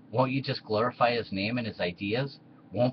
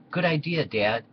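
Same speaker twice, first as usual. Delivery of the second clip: eager son; 6 semitones higher, 3 dB louder than usual. Acted. Titus eager to his father.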